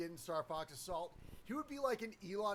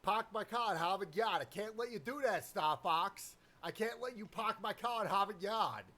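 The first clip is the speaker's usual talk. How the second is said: put-on Bostonian accent. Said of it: "Only if it's a really Bostonian accent".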